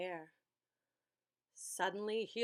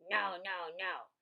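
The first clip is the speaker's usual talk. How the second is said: building shout, much higher and louder; 6 semitones higher, 8 dB louder, slower than usual. A narrator's reading. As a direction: shout it like a tantrum. Monsters' ten favorite words.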